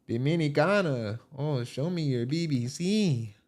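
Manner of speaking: drawn-out put-on Colombian accent; slow, playful fake Colombian accent; mock Colombian accent. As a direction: imitate a wife flirting in a Colombian accent. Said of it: "she got a Colombian accent".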